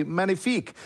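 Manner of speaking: mock French accent on magnifique, said as "man-yee-feek"; a light, joking bad French accent on the word magnifique. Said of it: "That's my bad French accent".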